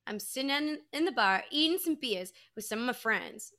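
light imitation of a Boston accent. Retelling Brett eating wings at the bar, mock Boston accent. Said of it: "saying in his Boston accent".

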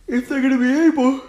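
words break up into a real laugh; laughing while talking. Real, not acted. Fan giving his playoff take, laughing through the words. Laughs mid-sentence about Packers.

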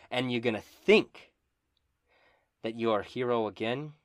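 a villain taunting the hero, rising to hard shouts; menacing taunt. Acted. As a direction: gloat over him, cruel and loud. DM voicing a betrayer's taunt.

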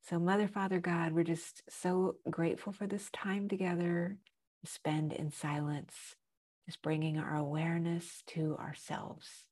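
hushed grateful prayer. Acted. Opening prayer.

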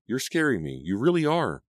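high, distressed appeal; plead, climbing in pitch. A narrator's reading. Girl scared by her friend's anger, pleading. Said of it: "Selina pleaded".

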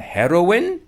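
high, loud questioning officer; loud mock official query; customs officer asking. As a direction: ask it like a stern official. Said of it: "they're saying".

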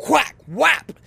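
loud, high imitated snap noise; mock whack sound. Recreating the wiper snap for viewers, loud mock snap sound. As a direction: make the snapping-plastic sound loud and high.

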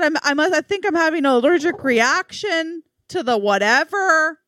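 high-pitched mock tearful panic; whimpery high voice, acted out; retold sobbing. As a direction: imitate pleading through sobs. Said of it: "I'm sobbing".

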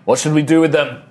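lightly voiced elf calling up; wild elf calling. Wild elf asking the shaman about captives, lightly calling out. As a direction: call over to your leader. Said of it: "He, like, looks up".

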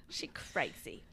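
whispered again; hushed repeat. Real, not acted.

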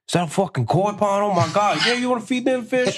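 high-pitched excited amazement; hyping up. Retold or imitated. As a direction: gush over it to hype the client. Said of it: "you fucking hyping them up".

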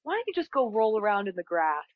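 high, cooing mom; sweet mom voice. Pretend. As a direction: coo like a kind mother. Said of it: "if your mom was like".

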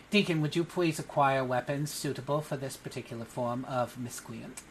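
lightly voiced cat-boy magistrate; a hint of cute officiousness; small cat boy official. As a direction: politely order a deputy as a tiny official. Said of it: "adorable small cat boy".

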